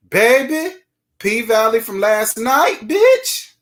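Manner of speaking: high, rising excited squeal building to a shriek. Real, not acted. Host squealing to her viewers about last night's show. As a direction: squeal it like you can't contain the gossip.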